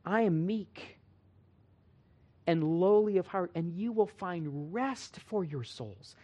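soft, slowing, tender scripture quote; gentle Jesus quote. Acted. Preacher quoting Jesus on being meek and lowly, soft and gentle. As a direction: let it sink softly, word by word. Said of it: "He said".

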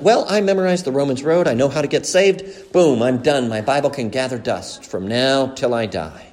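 lightly voiced self-satisfied churchgoer; mock complacent believer. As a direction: toss it off like a smug believer who thinks he's done. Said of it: "the Christian life is not".

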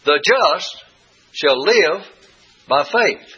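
The just, shall live, by faith, each phrase lifted and split by pauses; each word stressed. Shown as a demonstration. Teacher lays out the three key words one by one. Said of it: "So you have just and live and faith".

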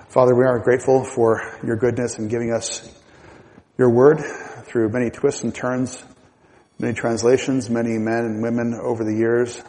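prayer. Acted. Leads closing prayer.

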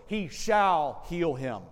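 SHALL drawn out and loud in "he shall heal him"; stress on shall. Shown as a demonstration. Preacher showing the congregation a wrong emphasis, heavy stress on shall. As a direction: lean hard and slowly on the word shall. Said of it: "If the emphasis is on shall".

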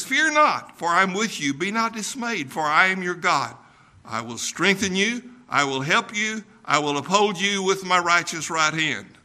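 verse read out in a preaching voice; scripture reading. Acted. Preacher reading Isaiah to his congregation, solemn reading.

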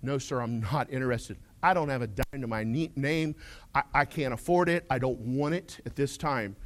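mildly acted kind refusal at the door; kindly. Homeowner turning down a door-to-door salesman, kindly. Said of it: "very kindly saying".

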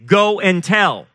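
"Go and tell" slow, high and loud; emphatic command. Shown as a demonstration. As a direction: hammer out "Go and tell" word by word. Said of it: "Same thing".

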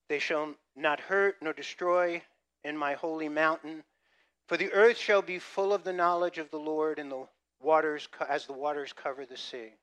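lightly elevated Bible reading; scripture reading. Acted. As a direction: read the verse with weight. Reads scripture.

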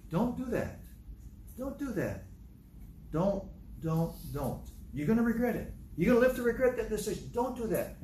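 high, pleading caution without shouting; urgent warning. Acted. Preacher showing how to stop someone's bad decision, urgent.

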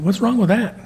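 put-on high child voice, stammering a why; playing a puzzled little girl; little granddaughter. Grandpa voicing granddaughter asking why God got mad, high and childlike.

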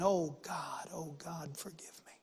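imitated plea sinking into a whisper; hushed re-enactment of crying out to God; retold tearful prayer. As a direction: murmur a broken man's prayer, fading away to breath. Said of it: "never heard a man cry like that".

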